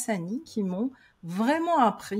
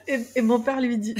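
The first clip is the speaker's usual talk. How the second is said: talking through laughter, faster; laughing; faster than usual. Real, not acted. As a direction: still giggling while speaking. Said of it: "ah, ah, tu rigolais".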